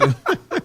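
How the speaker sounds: squealing high laugh. Real, not acted. Laughing at the sexy voice bit.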